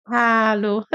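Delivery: "hallo" with the H breathed out like fogging a glass; breathy German H. Shown as a demonstration. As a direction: push air on the H of "hallo", as if misting a window. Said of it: "como se a gente tivesse embaçando um vidro".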